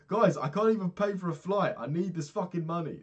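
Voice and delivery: high and loud, pleading and frantic; desperate begging. Retold or imitated. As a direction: plead with the company in a frantic pitch. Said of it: "I begged like three times".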